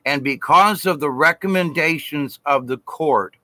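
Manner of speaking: measured, formal imitation of a judge from the bench; judge passing sentence. Judge reducing the speaker's sentence, mildly imitated formal delivery. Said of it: "And then he said".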